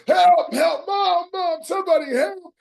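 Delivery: high, loud, desperate cry; crying out for help. Retold or imitated. Six-year-old beaten by teenagers, desperate high cry for help. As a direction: yell like a terrified child calling for mom. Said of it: "Man, I'm crying out".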